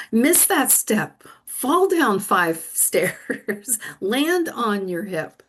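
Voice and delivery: slow, deliberate mock commands; playful God giving orders. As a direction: hand down each step slowly, amused. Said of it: "and God said".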